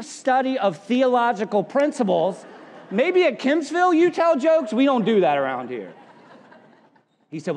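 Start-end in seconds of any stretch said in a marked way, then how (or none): 2.9-5.9 playful jab. Acted. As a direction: needle the other church. Teasing rival church.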